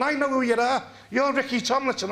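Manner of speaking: calling out high and loud after him; retold shout.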